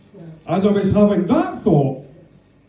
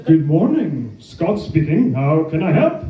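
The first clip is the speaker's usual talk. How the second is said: Shakespearean actor. Retold or imitated. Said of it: "full-blown Shakespearean actor".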